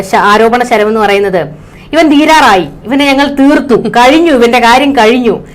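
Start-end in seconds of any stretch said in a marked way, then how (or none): 1.9-5.4 higher-pitched mock crowing; imitated gloating celebration. Cyber groups celebrating against Rahul, imitated gloating. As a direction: lightly act out gloating online posters. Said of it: "വലിയ ആഘോഷമായിരുന്നു".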